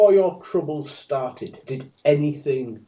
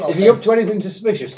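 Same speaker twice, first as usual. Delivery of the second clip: fast, higher suspicious question; 7 semitones higher, 5 dB louder, faster than usual. Acted. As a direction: ask it with narrowed suspicion. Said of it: "I asked suspiciously".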